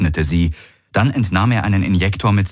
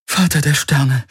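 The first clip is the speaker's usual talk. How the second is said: higher-pitched gasp of shock; 8 semitones higher than usual. A narrator's reading. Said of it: "keuchte sie". (erschrocken gekeucht)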